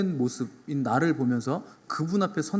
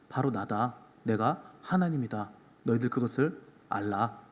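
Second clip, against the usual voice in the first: dropped, softer voice of authority; solemn rebuke; 4 semitones lower, 6 dB quieter than usual. Acted. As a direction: declare it gravely as the Lord. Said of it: "이렇게 꾸짖으시는 겁니다". (낮고 엄숙하게 꾸짖는 말투)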